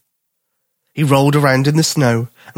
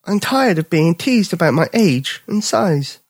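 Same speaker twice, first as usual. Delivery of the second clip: higher, slow sulky cub; fed-up young bear; 6 semitones higher, slower than usual. Acted. Bipper complaining to the dog about teasing, slow high cub voice. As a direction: sigh it out, tired of teasing.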